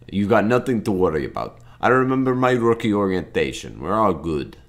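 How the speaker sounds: lightly put-on Russian accent. Rookie reassures the boss about staying out of trouble, makeshift Russian accent. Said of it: "I'm doing a Russian accent for Slovenia".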